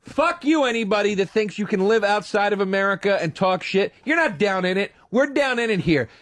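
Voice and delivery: heated rant. Real, not acted. Heated rant about America.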